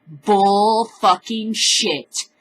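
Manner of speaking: very slow, spitting out Bull fucking shit word by word; angry, drawn out. Real, not acted. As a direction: drag each word out in real anger. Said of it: "Oh, I'm mad".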